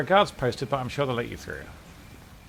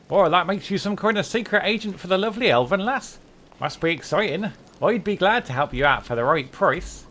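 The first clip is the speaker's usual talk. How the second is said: lightly voiced cheeky rogue, a bit higher; roguish ex-prisoner; 3 semitones higher than usual. Rogue telling the lady how he escaped prison, lightly voiced. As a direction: tell the tale like a sly thief.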